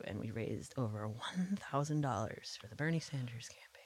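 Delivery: soft, unvoiced whispered brag. Real, not acted. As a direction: whisper it like a secret win. Whispered aside about fundraising.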